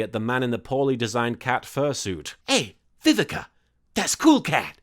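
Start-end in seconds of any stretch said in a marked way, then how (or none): 2.5-4.8 stiff, wooden line reading; reading from an autocue. A narrator's reading. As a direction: deliver it like a bored actor reading cue cards. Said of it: "spoke as though reading from an auto cue".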